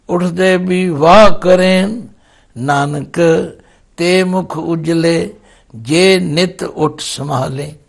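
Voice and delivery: slow, measured verse recitation; scripture recitation. Acted. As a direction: recite the holy verse with drawn-out words. (Gurbani ਦਾ ਧੀਮਾ ਪਾਠ)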